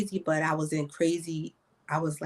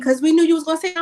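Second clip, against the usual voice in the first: put-on kids' voice, higher; 11 semitones higher, 7 dB louder, much faster than usual. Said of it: "And they like".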